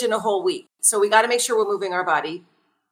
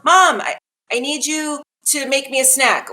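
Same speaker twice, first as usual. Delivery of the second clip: put-on needy kid; 4 semitones higher than usual. Kid at bathroom door asking mom for a snack, high whiny call.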